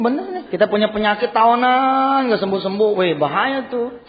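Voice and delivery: forceful preaching. Acted. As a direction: hammer the warning home to the congregation.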